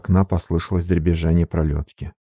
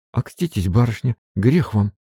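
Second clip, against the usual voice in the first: higher, timid denial; babbling maid; 4 semitones higher than usual. Acted. Maid Marfa denying her love to her mistress, timid. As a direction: stammer it out flustered. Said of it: "пролепетала Марфа".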